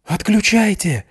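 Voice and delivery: high drawn-out alarmed yell; sudden shout. A narrator's reading. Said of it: "неожиданно закричал Матвеев".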